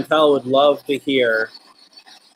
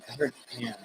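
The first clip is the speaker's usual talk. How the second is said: radio tuning in; 4 semitones lower, 16 dB quieter, much faster than usual. Real, not acted. Spirit box voice answering.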